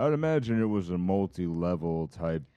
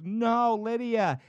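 put-on high, insistent old woman voice; old lady voice; 14 semitones higher, 3 dB louder, much slower than usual. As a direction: correct her friend, right in her face. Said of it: "goes right to her face".

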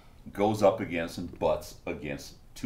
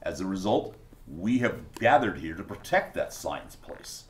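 reverent speech building to an excited, higher finish; solemn cultist professor, then fervent; 5 semitones higher than usual. Acted. Cultist explaining the sacred temple to an interviewer, solemn building to fervent.

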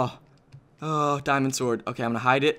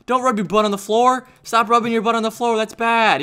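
higher, insistent scolding; scolding the dog; 5 semitones higher than usual. Pretend. Player to his dog rubbing on the floor, scolding. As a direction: tell off a misbehaving pet.

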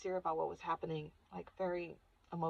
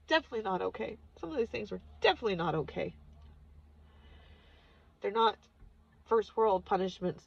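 firm insistence; 2 semitones higher, 6 dB louder than usual. Real, not acted. Confronting mother's harsh discipline.

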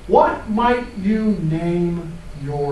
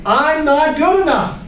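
high, louder taunting inner critic; gremlin voice; 10 semitones higher, 5 dB louder than usual. Pretend. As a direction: sneer it as the gremlin. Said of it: "This is my gremlin voice".

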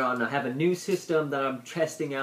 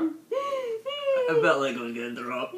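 half laughing, half gagging. Real, not acted. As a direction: choke out the words through laughter. Wasabi marshmallow challenge.

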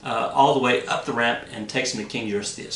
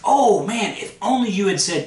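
exasperated Hercules; 7 semitones higher, 5 dB louder than usual. Acted. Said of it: "Hercules says".

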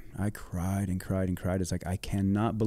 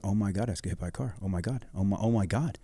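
retold panic; 3 dB quieter than usual. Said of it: "flying through the air going".

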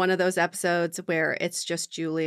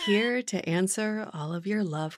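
radio host voice; 3 dB quieter than usual. Acted. Continues late-night radio host bit.

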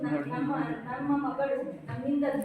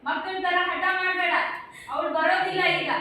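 higher, louder angry shout; angry scolding; 5 semitones higher, 7 dB louder than usual. Acted. Husband shouting at his wife to stop insisting, an angry shout. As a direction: snap at her to stop the tantrum.

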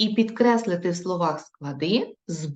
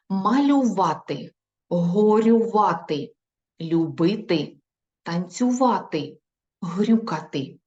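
slow reading; slower than usual. Shown as a demonstration. Teacher reading words aloud with pupils, slow. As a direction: read each verb out for the class. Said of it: "прочитаємо їх разом зі мною".

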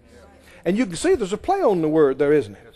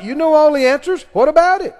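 louder, raised mocking challenge; taunting accusers; 7 semitones higher, 5 dB louder than usual. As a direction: corner him with the question. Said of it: "they kept on asking him".

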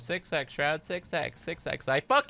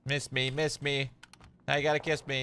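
dunk tank heckler; 3 semitones higher than usual. Pretend. Taunting enemy after dodge.

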